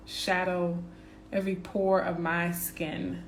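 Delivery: slow, earnest affirmation read. Acted. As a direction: savour each phrase like a mantra. Reads self-love affirmations slowly.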